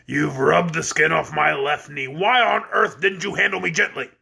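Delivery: a cranky goat scolding the men; gruff goat. Acted.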